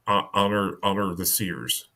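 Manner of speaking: halting, choppy "honor the seers". Acted. Timid old man saying an oath to the Moon Knight, choppy. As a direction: stumble on "honor", restarting it in short pieces. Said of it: "In, like, very, uh, choppy".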